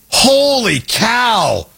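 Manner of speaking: slow, stretched out holy cow; drawn-out surprise. Real, not acted. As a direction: let the amazement stretch the words. Stunned at finding old clip.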